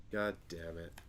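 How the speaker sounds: sighing whispered curse; whispered despairing curse; defeated whisper. Real, not acted. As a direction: breathe it out in defeat. Defeated sigh after failure.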